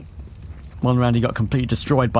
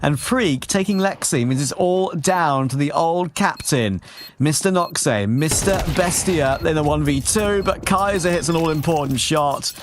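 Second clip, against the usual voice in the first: excited play-by-play; 5 semitones higher than usual. Real, not acted. Clutch play-by-play call.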